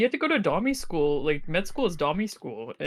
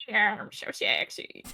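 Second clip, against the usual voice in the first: sexy voice; 4 semitones higher, slower than usual. Shown as a demonstration. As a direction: breathe it out slowly, seductive. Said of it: "you gotta sound like that".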